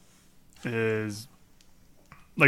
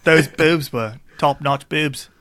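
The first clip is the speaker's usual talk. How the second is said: slow Cockney Michael Caine; Michael Caine impression; 2 semitones higher, slower than usual. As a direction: do your best Michael Caine. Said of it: "that's your Michael Caine".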